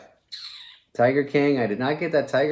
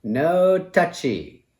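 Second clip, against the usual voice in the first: high, loud, stretched-out cartoon voice; llama character; 10 semitones higher, 5 dB louder, much slower than usual. Joker quoting The Emperor's New Groove, llama voice. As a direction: squeal it out slowly as a cartoon llama. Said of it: "As the llama".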